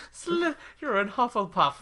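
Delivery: mock grumpy sorting hat. Voicing the angry sorting hat.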